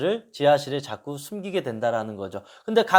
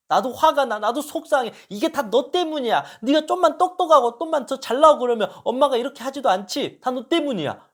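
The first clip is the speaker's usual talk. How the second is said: higher, upset blaming rant; irritated outburst; 8 semitones higher than usual. Retold or imitated. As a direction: vent frustration at the child. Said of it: "화를 내고 짜증나는 거죠". (짜증내며 탓하는 엄마)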